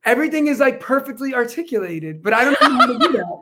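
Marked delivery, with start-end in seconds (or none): 0.0-2.2 lightly mimicking perfect articulation; a hint of precise, proper diction; over-articulated impression. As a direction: pronounce perfectly articulated with careful crispness. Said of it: "Do an impression of what you think I sound like".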